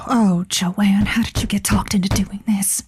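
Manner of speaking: hushed self-talk; a private whispered grumble; whispering to herself. Acted. Josie alone in the dark studio, whispered muttering.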